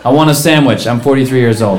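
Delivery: 'want a sandwich' first, then 'forty-three' tacked on dumbly; sounds like a moron. Shown as a demonstration. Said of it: "say your age after the thing".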